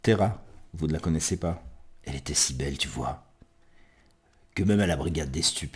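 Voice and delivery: low-key storytelling poetry reading; subdued recital, phrase by phrase; narrative poem recitation. Acted.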